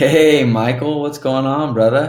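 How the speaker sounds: buddy-buddy friendly tone. Demonstrating a call greeting that should not sound cold: familiar, like an old friend. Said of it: "I always match the tonality like I know them".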